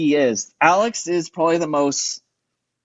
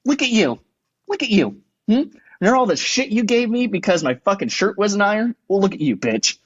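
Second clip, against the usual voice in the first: teasing sing-song jab; mocking taunt; 3 semitones higher than usual. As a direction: throw it back at them, gloating. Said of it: "And I said".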